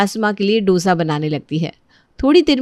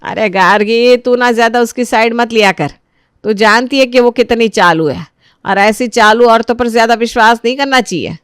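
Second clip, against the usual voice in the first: scolding mother-in-law; 2 semitones higher, 4 dB louder than usual. Acted. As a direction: complain sharply about the other daughter-in-law. Mother-in-law scolds about Disha.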